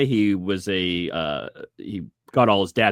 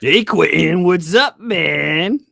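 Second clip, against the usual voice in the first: draft day call voice; 6 semitones higher, 7 dB louder, much slower than usual. Retold or imitated. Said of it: "the greatest line after getting drafted".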